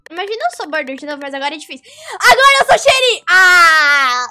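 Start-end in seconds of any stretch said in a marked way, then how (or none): 2.1-4.3 real anguished yell; dismayed shout. Real, not acted. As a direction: cry out in disbelief. Gamer dismayed at role.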